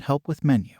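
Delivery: hammed-up exaggerated Asian accent; playfully imitating an exaggerated Asian accent; mock exaggerated Asian accent. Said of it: "very loudly says in a very exaggerated Asian accent".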